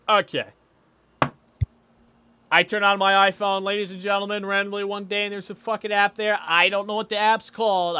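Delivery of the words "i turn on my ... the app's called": loud, high announcer-style delivery; showman's pitch. Acted. Host pitches an app to listeners, loud showman's pitch. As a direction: pitch it loudly to the crowd.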